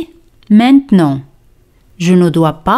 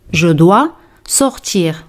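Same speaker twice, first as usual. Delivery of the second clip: slower, each word spelled out; slow repeat; 2 semitones lower, slower than usual. Shown as a demonstration. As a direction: repeat it slowly for learners. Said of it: "repetición lenta". (repetición lenta y clara)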